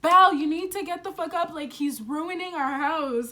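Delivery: loud, fast urgent call to a sleeping friend; urgent yell to wake up. Retold or imitated. Friend yelling at sleeping Belle to get up, loud and fast. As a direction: shout her awake, hurried. Waking friend during break-in.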